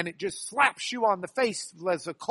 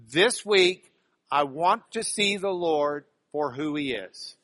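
fuller voice, measured and firm; leading group recitation; 3 semitones lower than usual. Shown as a demonstration. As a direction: lead the congregation in saying it together. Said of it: "say this with me".

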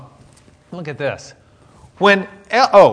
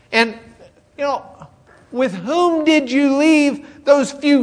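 angry big brother; 9 semitones higher, 7 dB louder than usual. Acted. Oldest brother berating David, angry scolding. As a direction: tear into him like a jealous older brother. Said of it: "Eliab burned with anger at David".

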